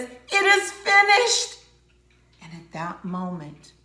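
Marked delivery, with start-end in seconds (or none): 0.0-1.6 much higher, loud, slow cry; yelling out. Acted. Jesus crying out from the cross, loud slow high cry. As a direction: cry out the last words with full force. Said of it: "Jesus yells out and says".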